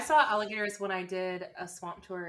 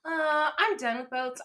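slow, higher dad voice; imitating dad; 6 semitones higher, slower than usual. Daughter quoting dad giving up boats, slow put-on voice. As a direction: drag it out like a dad announcing he's finished. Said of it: "my dad was like".

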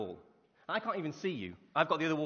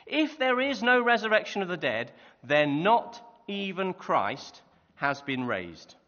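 forceful reading; 2 semitones higher, 5 dB louder, slower than usual. Acted. Reading Paul's challenge aloud.

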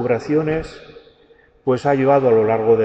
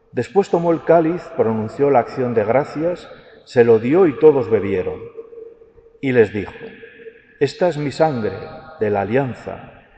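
liturgical reading. Acted. Proclaims the Gospel at Mass.

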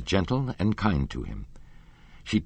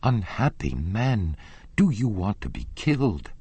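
terrified plea; 3 semitones higher than usual. A narrator's reading. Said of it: "showing every sign of unspeakable terror".

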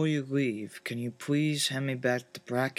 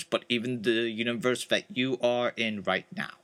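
much lower, darker voice; deep real voice; 3 semitones lower than usual. Acted. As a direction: drop into a low, grave voice. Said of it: "this is more of my real voice".

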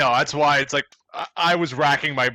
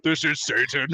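demon voice. Real, not acted. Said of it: "you sounded like an actual demon".

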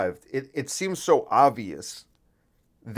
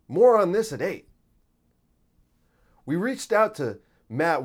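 mock anchor, pitched up and punchy; news anchor voice; 4 semitones higher than usual. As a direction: do a cheesy evening news tease. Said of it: "comes out in a news anchor voice".

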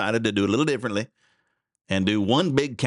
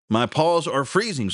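a slow, slightly raised whine about cold paws; lightly voiced big dog; 5 semitones higher, slower than usual. Radio host telling a meme, the big dog lightly whining. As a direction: play the big dog, complaining mildly. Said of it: "says the big dog".

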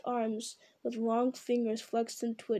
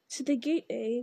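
squeaked. Acted. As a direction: squeak it out in sudden fright. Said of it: "Gollum squeaked".

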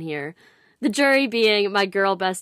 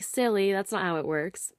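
light playful reply; 4 dB quieter than usual. Retold or imitated. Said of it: "lightly respond".

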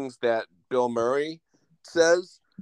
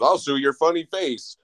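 mock bad movie dub, pitched up; higher, hammed-up overdub voice; Bill Murray; 5 semitones higher, 3 dB louder than usual. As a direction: imitate a clumsily dubbed threat. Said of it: "jumps to a Godzilla dub of Bill Murray".

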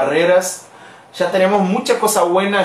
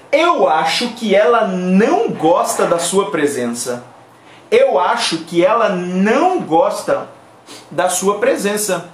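slow demo sentence; slower than usual. Shown as a demonstration. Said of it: "Aquí hemos visto cómo decir".

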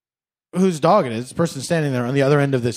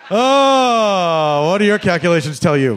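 sarcastic question; 4 dB louder than usual. Pretend.

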